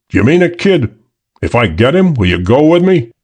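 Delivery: a hint of a hopeful henchman; Hook pleading. Hook asking the girl to come, lightly eager.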